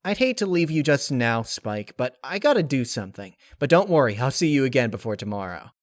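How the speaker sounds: hasty goodbye to Spike; eager Rainbow Dash. Acted. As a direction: rush off with a promise. Narrator voices Rainbow Dash.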